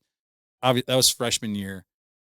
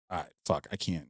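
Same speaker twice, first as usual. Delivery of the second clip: low, much softer self-mutter; muttered aside; 5 semitones lower, 11 dB quieter, faster than usual. Retold or imitated. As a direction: mutter it under your breath. Retold muttered reaction.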